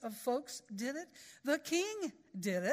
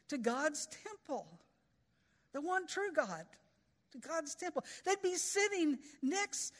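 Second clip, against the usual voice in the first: higher, a lightly voiced Jonah in growing alarm; dismayed Jonah; 5 semitones higher than usual. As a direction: let Jonah fret as the horror dawns. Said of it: "Jonah's thinking".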